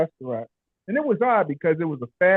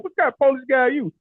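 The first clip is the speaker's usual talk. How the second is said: mock disbelief; 8 semitones higher, faster than usual. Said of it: "I was like".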